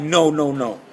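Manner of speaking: loud, high drawn-out noes; retold cry of disbelief, rising high and loud; stunned disbelief. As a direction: wail a long string of no in mock panic. Stunned at the phone ringing.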